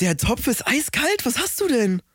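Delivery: high, slow put-on voice; deadpan ad character; ad actor voice. Ad sketch other role.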